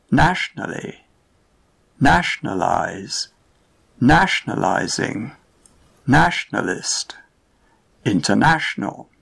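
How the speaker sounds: NAtion, NAtional, NAtionalize, interNAtional, stress on NA; word family stress. Shown as a demonstration. Teacher reading a word family aloud to learners, stress on NA. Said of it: "listen to the words in the family".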